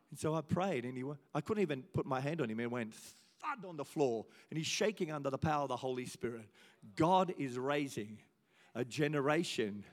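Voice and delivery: soft, awed testimony; quiet awe. Real, not acted. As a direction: let the moment sink in. Hushed awe after story.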